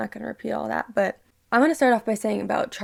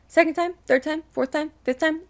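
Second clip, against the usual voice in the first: heated counting; 6 semitones higher than usual. Real, not acted. Vlogger ranting at a bully, heated and indignant. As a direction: count them off, getting angrier. Angry rant counting repeat jokes.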